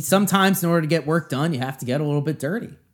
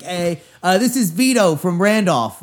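higher-pitched, drawn-out caller greeting; radio caller from Randolph; 5 semitones higher, 4 dB louder, slower than usual. Retold or imitated. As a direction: imitate a local guy phoning the show. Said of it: "people would call in".

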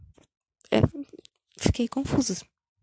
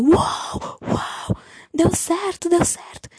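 much higher, airy cheering; mock celebration; 8 semitones higher, much slower than usual. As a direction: cheer that the plan worked. Chico celebrating the plan. (comemorando, agudo e soprado)

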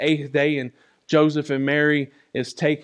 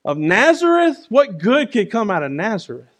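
scoffing disciple; 4 semitones higher than usual. Retold or imitated. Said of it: "his very own disciples says".

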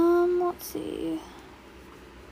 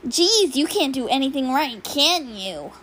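put-on Baby Bakubro. Shown as a demonstration. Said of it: "Oh, Bakubro?".

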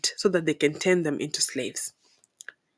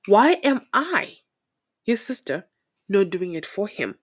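imitating nosy auntie. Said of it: "she's going to say".

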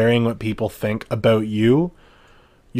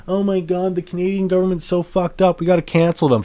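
high, whiny mock outrage; mocking outraged person; 7 semitones higher than usual. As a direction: parody a fake-outraged canceller. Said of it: "go back on your word and say".

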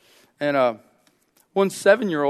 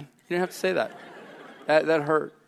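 laughing hurt; 3 dB quieter, faster than usual. Real, not acted. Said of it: "that hurt, man".

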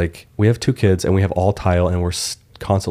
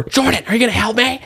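high, shrill-voiced parody of an annoyed wife; husband imitating his mad wife, high and whiny; mock angry wife. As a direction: squeak it up high as a hammed-up nag. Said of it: "She gets so mad".

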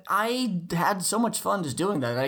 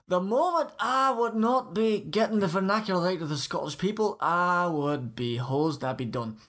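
Scottish accent. Shown as a demonstration. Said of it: "the speaker doing a Scottish accent".

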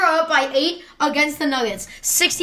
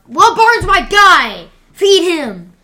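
hyped fan shout; 5 semitones higher, 7 dB louder, slower than usual. Real, not acted. Hyping a favourite player.

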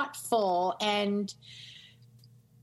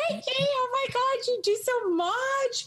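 gushing mock praise. Praising Frankie for doing so much, in a high gushing voice. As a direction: squeal it like an adoring fan.

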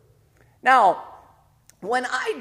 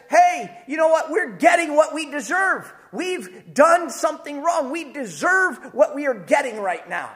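voiced criminal, raised and higher; criminal's confession; 5 semitones higher than usual. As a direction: blurt it out like a condemned man. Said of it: "The second criminal says".

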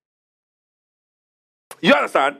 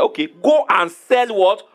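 voicing Jesus; 6 semitones higher, 4 dB louder, much slower than usual. Jesus quoted telling rich man.

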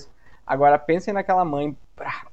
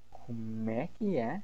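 slow, much softer, lower "Como é que é?"; stern mother; 3 semitones lower, 9 dB quieter, slower than usual. Acted. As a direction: mom warning you to take it back. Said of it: "e aí ela fala". (mãe brava, lenta e baixa: "Como é que é?")

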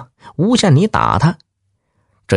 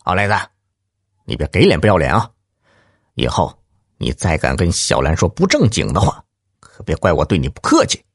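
low, menacing threat; grim warning; 3 semitones lower, faster than usual. Acted. Husband warns the lout, low grim threat. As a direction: keep it dark and hard, clipped fast at first. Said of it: "黑着脸对他说".

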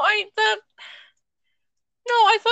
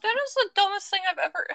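whisper; 5 dB quieter, faster than usual. Real, not acted. Embarrassed aside after mispronouncing.

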